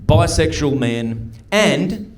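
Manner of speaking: slow, measured newsreader imitation; news lady. News lady announces the outbreak's three main groups, slow newsreader delivery. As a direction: read it out like a bulletin, with deliberate pauses. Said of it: "the news lady said this about it".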